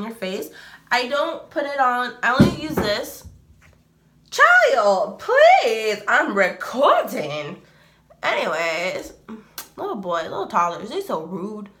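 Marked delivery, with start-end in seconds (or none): 4.3-7.6 real exasperated holler. Real, not acted. Yells at noisy son while recording.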